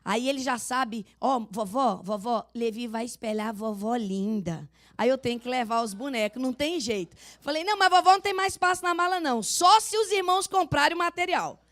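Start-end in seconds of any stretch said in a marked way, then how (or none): 1.2-4.7 flattering grandchild. Retold or imitated. 7.6-11.6 excited refusal. Retold or imitated. Grandma refuses grandson, selling material.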